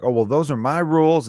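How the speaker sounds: a hint of a fussy Southern father; lightly voiced Southern dad. Host imitating Todd Chrisley laying down house rules, lightly voiced. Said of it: "he'd very much like".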